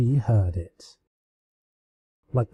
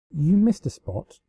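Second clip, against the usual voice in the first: cheerful; 5 semitones higher than usual. Acted. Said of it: "Celestia smiled cheerfully at the guard".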